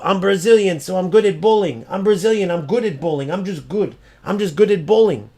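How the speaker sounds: repetitive singsong parody of a braggart; mocking boast. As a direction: mimic an empty boast, voice lifted slightly.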